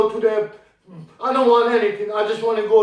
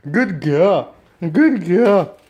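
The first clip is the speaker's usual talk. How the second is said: praising a dog; 4 semitones lower, 5 dB louder, much slower than usual. Real, not acted.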